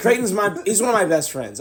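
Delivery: words rattled off fast, choking on one. Retelling how the words come out about a best friend: imitating own rushed, choked-up saying. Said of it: "every time I say it like that, that fast".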